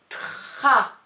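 "Tra" with a long R, loud; drawn-out dictation. Shown as a demonstration. Teacher dictating the second syllable, loud and stretched. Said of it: "des dictées de syllabes".

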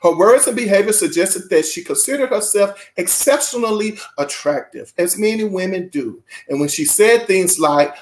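deliberate, emphatic reading voice; measured read-aloud with punched phrases; book read-aloud. Acted. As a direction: read it out to an audience with weighted key words.

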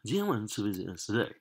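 fast, casual run-through of the question; quick repeat. Shown as a demonstration. Teacher repeating the exercise to the class, quick and casual.

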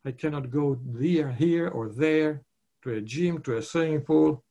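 mildly whining list of complaints; complaining. Acted. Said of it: "not to complain what you can't do".

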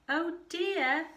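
high, drawn-out cry of helplessness; scared wail. A narrator's reading. Scared Kevin clinging to falling tree, wailing. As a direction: stretch it into a dramatic wail. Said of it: "But Kevin was scared".

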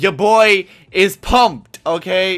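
loud, high, drawn-out hype; big excited boast; pumped up. Real, not acted. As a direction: punch it out slowly, really hyped. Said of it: "Literally, I am pumped".

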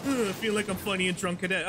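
whiny mocking echo of the voice; mocking imitation. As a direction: parrot the taunt in a sneering voice. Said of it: "that lame-ass tone that said that shit".

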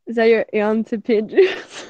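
slow silly put-on voice with a whiny edge; a slow, drawn-out joke voice; a lightly hammed-up goofy voice. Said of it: "trying to talk like that".

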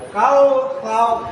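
"কাউ" slow and loud with a heavy, full throat; thickened throat. Shown as a demonstration. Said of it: "গলাটাকে মোটা করতে হবে". ("কাউ", গলা মোটা করে)

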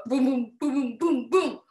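punchy gorilla booms; chest-beating booms. Pretend. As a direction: thump out each boom.

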